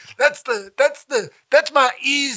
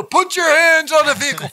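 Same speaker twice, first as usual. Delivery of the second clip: higher, commanding cop order; mock cop ordering him at the roadside, higher and commanding; imitating a cop; 6 semitones higher, 4 dB louder than usual. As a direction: bark it like a cop at a traffic stop. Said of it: "you know".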